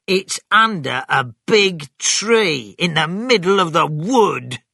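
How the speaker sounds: loud, high, eager farmer; excited. Acted. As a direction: burst out with the secret excitedly. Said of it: "Bean was excited".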